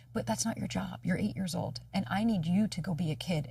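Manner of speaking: put-on gently relieve a child of a burden; tender, quiet reassurance to a child; gentle reassurance. Reassuring her inner child.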